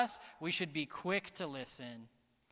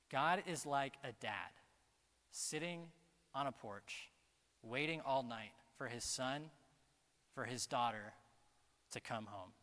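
soft, low, with long pauses; hushed preaching; 3 semitones lower, 5 dB quieter than usual. Real, not acted. Preacher picturing a father waiting all night, hushed. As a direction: let the picture settle gently, phrase by phrase.

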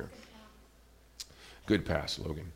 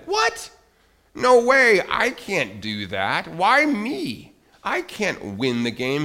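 much higher, louder disbelieving cry; hammed-up panicky Moses; what-me outburst of alarm; shocked protest; 7 semitones higher, 5 dB louder, much slower than usual.

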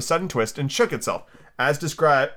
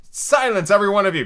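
loud, high order; commanding cry; 8 semitones higher, 5 dB louder than usual. A narrator's reading. Tiger Lily hushing the chattering daisies, loud commanding cry. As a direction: call for silence, high and forceful. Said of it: "cried the Tiger Lily".

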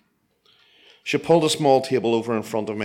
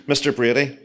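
put-on Chinese accent; 4 semitones higher, 4 dB louder than usual. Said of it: "with a heavy Chinese accent".

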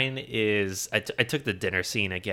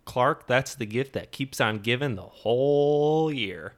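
slow Eddie voice; 4 semitones higher, slower than usual. Retold or imitated. Same quote again.

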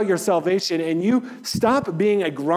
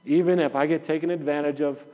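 softer, lower, calming himself down; calm self-talk; 4 semitones lower, 5 dB quieter than usual. Retold or imitated. Pastor retelling his inner talk while waiting, calm and quiet. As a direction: talk yourself down gently, letting it go.

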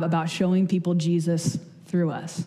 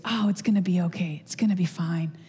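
reassuring. Retold or imitated. Someone treats you with grace.

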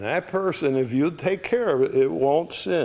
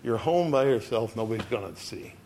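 put-on soft, tempting murmur of the old man; sly hushed temptation; mock whisper; 2 semitones lower, 5 dB quieter than usual. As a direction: coax it quietly, like a voice in the ear. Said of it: "He's whispering in your ear".

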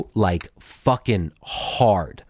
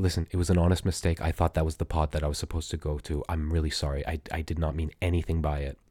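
much softer and lower, fast and placating; library voice; 7 semitones lower, 8 dB quieter, faster than usual. Retold or imitated. Choked inmate reasoning with the deputy, soft quick plea. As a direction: plead softly so he won't hit you. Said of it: "I tell him really quietly".

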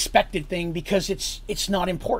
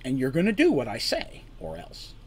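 hint of danger. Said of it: "a hint of dangerousness in his voice".

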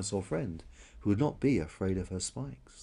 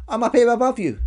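high, loud little call; 13 semitones higher, 9 dB louder than usual. Acted. Unseen stranger calls down to the crier, little high voice. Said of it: "said the little voice again".

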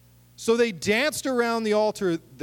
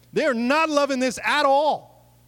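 high, louder punchline; excited emphasis; emphatic aside; 9 semitones higher, 5 dB louder than usual. Real, not acted. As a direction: land it with a loud high push. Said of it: "emphatic aside".

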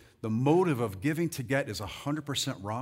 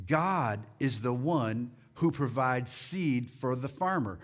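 slow, deliberate scripture reading; 3 semitones lower, slower than usual. Shown as a demonstration. Preacher reading scripture to congregation, slow reading. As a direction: read it out slowly, word by word. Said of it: "let's read that slowly".

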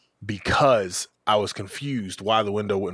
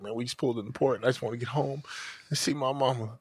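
mock-pitiful plea to the cop, much softer; soft pleading; 2 semitones higher, 8 dB quieter than usual. Buddy pleading with the officer, soft and pitiful. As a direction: quietly beg to be let go home.

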